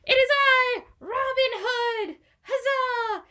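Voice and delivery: loud, high triumphant proclamation; heroic reveal. A narrator's reading. Robin Hood revealing himself to the crowd, loud heroic cry. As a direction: throw it out like a hero unmasking. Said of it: "So he goes".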